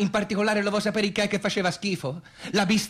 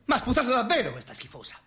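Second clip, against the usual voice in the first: laughing outrage; 5 semitones higher, faster than usual. Real, not acted. Outraged at being spat on.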